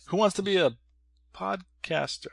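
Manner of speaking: high, announcer-style host voice; game show host. Pretend. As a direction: boom it like a quiz host. Game show host parody, retake.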